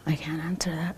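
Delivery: barely whispered, holding back; a hushed, shaken admission; quiet whisper. Real, not acted. Emotional interview about drunk driving.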